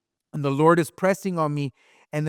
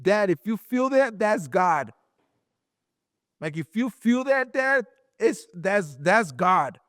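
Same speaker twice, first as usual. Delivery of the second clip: retold urgent plea; 4 semitones higher than usual. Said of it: "I was like".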